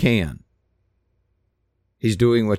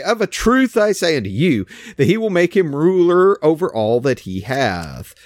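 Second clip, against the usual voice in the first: forceful, authoritative reading of Jesus; with authority; 4 semitones higher than usual. Shown as a demonstration. Preacher showing his flock Jesus's words, said with authority. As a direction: read it like he's not messing around. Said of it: "Read it in the tone of Jesus".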